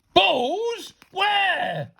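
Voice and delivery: high, urgent shouted question; frantic, loud interrogation; demanding. A narrator's reading. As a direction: demand it at the top of your voice. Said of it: "he demanded".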